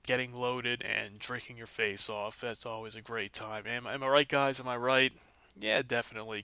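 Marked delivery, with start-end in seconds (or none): 3.7-5.1 loud, playful call to the crowd. Real, not acted. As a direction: hype up the listeners. Host calls out to listeners.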